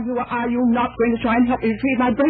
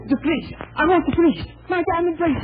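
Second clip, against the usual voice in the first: agitated; 8 semitones higher than usual. Acted. Robbery victim demanding police.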